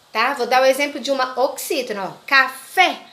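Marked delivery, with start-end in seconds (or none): 2.3-3.0 "café" with the weight on fé; stress on last syllable. Shown as a demonstration. Teacher showing pupils an oxytone word, stressed last syllable in "café". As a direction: lean on the final fé of "café". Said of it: "O fé não é mais forte?".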